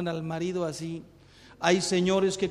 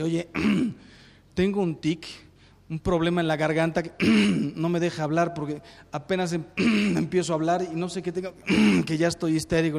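hammed-up tic sufferer, hurried; man with a throat tic; 3 semitones lower, faster than usual. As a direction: blurt it out between throat-clearings. Joke patient with throat tic.

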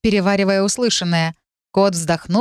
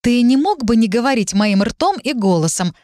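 irritated higher question; displeased; 4 semitones higher than usual. Acted. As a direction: ask it annoyed. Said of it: "недовольно спросила я". (недовольно)

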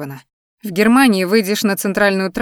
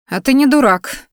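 sudden, higher and louder blurt; 5 semitones higher, 4 dB louder than usual. Acted. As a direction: let it slip out before you can stop. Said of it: "Вырвалось у меня".

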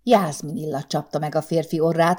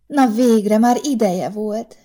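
put-on higher, slow baby talk; babyish cooing; 6 semitones higher, 5 dB louder, slower than usual. A narrator's reading. Secretary cooing to her boss, higher baby talk. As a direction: coo it like a little girl. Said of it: "gügyögte Zsuzsika".

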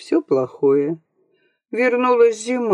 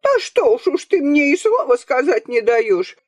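higher mock wail of an offended old woman; grandmother wailing; 7 semitones higher than usual. A narrator's reading. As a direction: whine it out, hurt and aggrieved. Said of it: "завыла бабуша".

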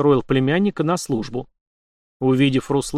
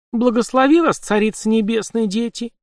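tearful blessing; 9 semitones higher than usual. A narrator's reading. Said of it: "чуть слышно всхлипнув".

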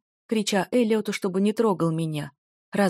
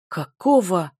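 louder, jolted burst of surprise; startled gasp; 5 dB louder, slower than usual. Acted. Henchman startled as the hero appears, gasping. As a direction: caught off guard, blurt it out. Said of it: "ахнул один из них".

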